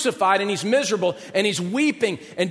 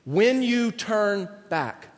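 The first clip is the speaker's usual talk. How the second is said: echoing memory; 3 dB quieter, slower than usual. Retold or imitated. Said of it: "running through his head".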